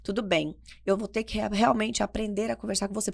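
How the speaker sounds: calm, measured voice after shouting; composed reasoning. Retold or imitated. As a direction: imitate a mother reining herself in. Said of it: "Aí eu respiro, sento".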